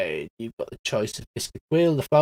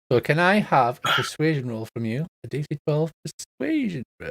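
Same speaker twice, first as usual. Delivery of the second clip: usual speaking voice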